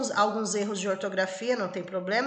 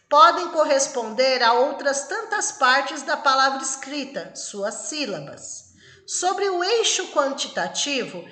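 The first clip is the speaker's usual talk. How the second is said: reading the question aloud. Acted. Reads exam question aloud.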